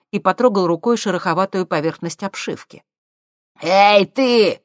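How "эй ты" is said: high, loud furious yell; angry shout. A narrator's reading. Professor yelling at the thief, furious shout. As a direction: bark it at him. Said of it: "злобно крикнул ему профессор".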